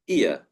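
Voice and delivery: "ear" as ee-uh, no R; British pronunciation. Shown as a demonstration. Teacher showing the British vowel, "ear" as ee-uh. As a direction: say "ear" gliding into a schwa. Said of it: "For British pronunciation".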